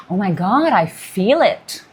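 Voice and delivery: slow, hushed "I feel it" in wonder; awed realization. Pretend. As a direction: let the feeling land slowly and savour it. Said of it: "No, it's gonna be like".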